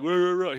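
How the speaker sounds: repeated mocking "arr" sounds; teasing string of vocal whirrs; mimicked noise. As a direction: copy a whirring noise playfully. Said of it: "that's what we're doing".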